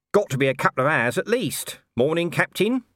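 saunter in unbothered; lightly voiced Nobby. A narrator's reading. Nobby ambling in and teasing Colon, offhand.

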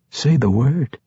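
lightly teasing, pitch lifted. A narrator's reading. Entreri daring Dahlia to answer, teasing. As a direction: tease them with a lilt. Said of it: "he teased".

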